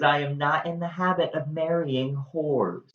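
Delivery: a lightly voiced indignant groom; Claudio's cold accusation. Claudio denouncing Hero at the altar, mild mock scorn. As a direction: deliver the insult with mild mock disdain. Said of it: "And he says".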